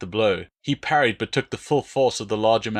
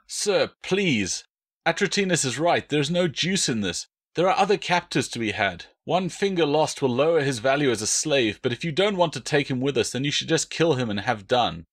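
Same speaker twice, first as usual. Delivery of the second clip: nervous; 4 semitones higher than usual. Acted. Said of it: "the nervous cavalryman said".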